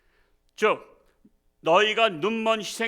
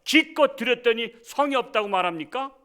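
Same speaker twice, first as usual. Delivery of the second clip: higher and louder, defiant retort; indignant protest; 6 semitones higher, 5 dB louder than usual. Retold or imitated. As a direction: argue back at the dictator. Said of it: "만약에 김정은한테".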